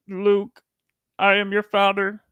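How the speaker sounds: lightly voiced movie villain; hint of a famous film line delivery; movie villain quote. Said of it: "I thought it was Yoda".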